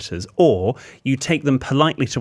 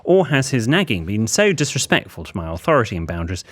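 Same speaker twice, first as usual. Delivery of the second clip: measured, formal run of questions; letter read aloud. Acted. Host reads the writer's dilemma asking for advice, measured letter-reading voice.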